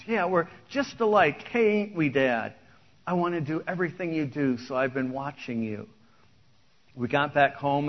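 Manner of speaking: lyrics spoken like a story poem; preacher reading out a country song; song recitation. Acted.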